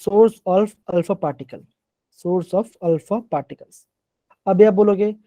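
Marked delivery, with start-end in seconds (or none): 0.0-3.9 slow dictation. Shown as a demonstration. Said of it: "क्या कहते हैं?".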